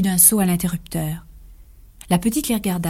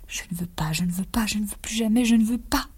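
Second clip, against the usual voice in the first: sobbing plea; 3 semitones higher than usual. Acted. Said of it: "Zulma sanglotant et suppliant".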